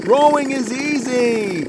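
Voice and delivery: high, slow, sure of herself; a child breezily brushing off doubt; high, slow boast; Tina's confident voice. A narrator's reading. Tina boasts.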